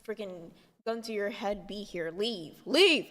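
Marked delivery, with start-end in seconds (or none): 2.7-3.1 high, loud joking shout; mock shout. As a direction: bark it out as a joke. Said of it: "I'm just kidding".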